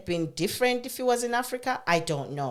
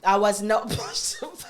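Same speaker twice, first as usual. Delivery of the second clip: laughing; 2 semitones higher, 3 dB louder than usual. Real, not acted. Laughs at friend's joke.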